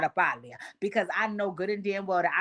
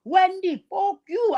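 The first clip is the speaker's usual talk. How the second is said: higher, louder mock yell at Wendy; retold cussing out; 10 semitones higher, 4 dB louder, slower than usual. Miss Sue cursing out Wendy at her house, mock yelling. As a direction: fling it like a cuss-out. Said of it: "And Miss Sue was like".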